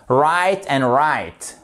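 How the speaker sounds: "Right and right" said slowly, both words alike, W silent; slow demo of "Right", no W sound. Shown as a demonstration. French teacher showing learners "Right" has no W, said slowly. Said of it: "Le W ici ne s'entend pas".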